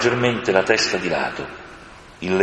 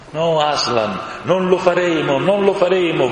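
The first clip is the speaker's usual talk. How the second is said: shouting together; 9 semitones higher than usual. A narrator's reading. The creatures shout their promise to Aslan together. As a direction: cry out your vow all at once. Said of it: "gridarono all'unisono".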